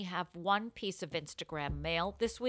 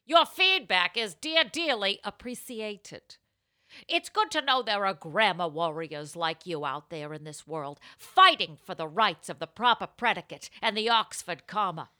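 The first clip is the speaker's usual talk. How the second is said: deliberate, emphatic advice columnist; theatrical columnist reply with swelling stresses; Ann Landers; 6 dB louder than usual. Acted. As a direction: put on a grand agony-aunt voice. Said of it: "the answer is in Anne's voice".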